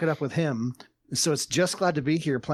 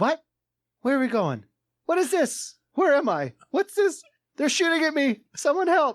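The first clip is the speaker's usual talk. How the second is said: put-on very high young child's voice; 12 semitones higher than usual. Retelling what a daughter said while dropping into a game: imitating a daughter's voice.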